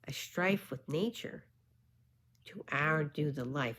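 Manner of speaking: measured poem reading with pauses; careful verse reading. Real, not acted. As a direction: read archaic verse carefully, phrase by phrase. Reads old verse aloud.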